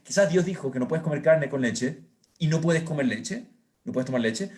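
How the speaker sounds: ordinary talk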